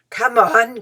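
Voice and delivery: loud, delighted call; almost dancing with delight; excited cry. A narrator's reading. Mister Beaver crying out to the children in delight. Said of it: "cried Mister Beaver".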